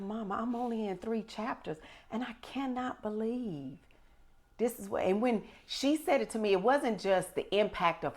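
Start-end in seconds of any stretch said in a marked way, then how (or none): 0.0-5.0 retold tearful daughter. Retells tearful daughter's words to her.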